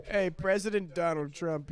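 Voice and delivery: tentative impersonation, drawn out; Donald Trump. Acted. Comedian attempting the president, put-on voice. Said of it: "I can't hear my own voice".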